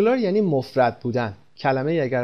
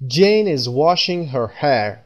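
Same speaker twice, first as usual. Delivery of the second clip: right example, slow; 4 dB louder, much slower than usual. Shown as a demonstration.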